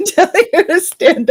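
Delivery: laughing through the words. Real, not acted. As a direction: still cracking up while talking. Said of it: "Your head pretty good".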